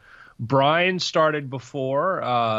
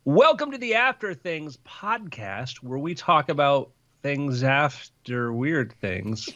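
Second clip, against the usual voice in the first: podcast intro. Acted. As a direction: open the show like a host. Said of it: "take it away, in three, two".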